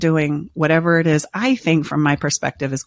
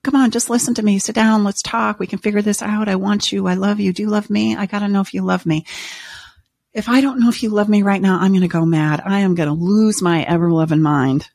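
higher, pleading and anxious; pleading chaser; 4 semitones higher than usual. Acted. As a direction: beg the partner to stay and talk. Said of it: "The part of the person chasing".

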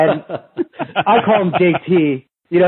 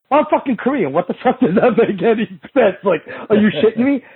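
higher-pitched mock-incredulous retort; indignant comeback; 6 semitones higher than usual. Firing back at the coach who challenged his jokes, mock indignant.

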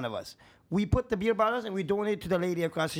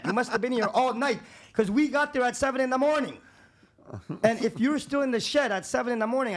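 mild re-enacted telling-off, gradually more heated; retold heated yelling; 4 semitones higher than usual. New owner confronting man from the shed, retold heated yelling. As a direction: lay down the law, voice only somewhat raised. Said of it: "I started swearing and yelling".

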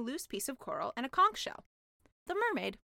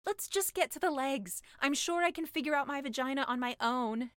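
impatient; 3 semitones higher than usual. Acted. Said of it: "she said, rather impatiently".

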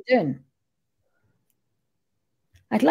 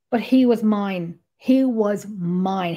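tender, slow; 2 semitones lower, much slower than usual. Real, not acted. Telling the audience about the spirit she bonded with, slow and tender. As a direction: linger on he was mine, tenderly. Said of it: "tender claim about a spirit".

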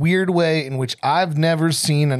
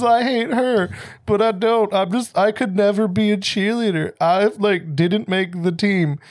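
mock crying; 4 semitones higher than usual. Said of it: "And she's, like, crying".

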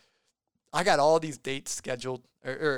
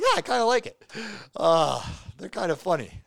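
high mock listener; 6 semitones higher, 5 dB louder than usual. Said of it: "they're like".

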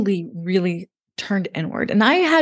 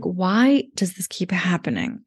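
slow, breathy whispered despair; retold tearful whisper. Driving home after the breakup, whispering her despair through tears. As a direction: whisper it as if holding back tears. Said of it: "And I'm just crying".

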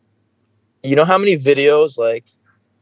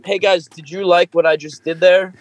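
higher begging mock creator voice; mock needy creator; 5 semitones higher than usual. Friend mocks attention-seekers, higher pleading mock voice. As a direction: plead for likes like a needy youtuber.

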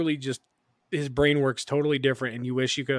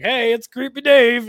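imitating Creepy Dave; 10 semitones higher, 10 dB louder than usual. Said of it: "I was like".

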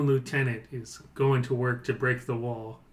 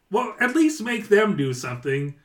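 higher, louder goblin order; annoyed goblin boss; 8 semitones higher, 6 dB louder than usual. Acted. Goblin boss orders his lieutenant, high and loud. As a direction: snap an order like a fed-up goblin. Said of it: "And then he's like".

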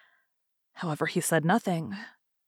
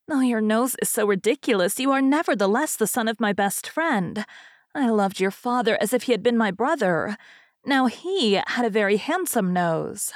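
lightly voiced fairy, a little higher; chatty fairy; 3 semitones higher than usual. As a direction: give a hint of a talkative fairy hostess.

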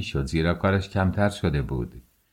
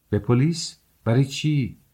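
higher, rising puzzled questions; surprised questioning; 5 semitones higher than usual. Acted. Lodger hearing of a police complaint, surprised. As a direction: ask it taken aback.

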